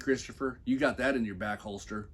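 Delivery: ordinary delivery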